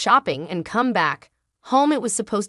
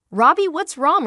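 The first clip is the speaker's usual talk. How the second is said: startled; 8 semitones higher, 5 dB louder than usual. Acted. Mother startled by son.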